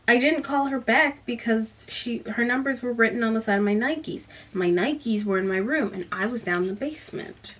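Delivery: reading a novel excerpt aloud to viewers; measured storyteller read, voicing the dialogue lightly; book reading. Reviewer reading a passage from the book, story narration.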